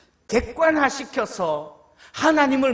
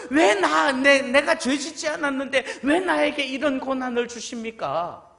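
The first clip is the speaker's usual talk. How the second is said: Job's protest; 4 semitones higher than usual. Acted. Job protesting to God.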